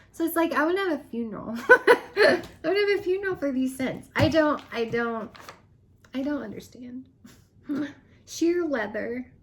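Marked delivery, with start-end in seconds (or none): 0.1-7.9 high, fast, laughing through it. Real, not acted. Vlogger joking she'd hold a funeral for scents, laughing. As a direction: giggle through the joke.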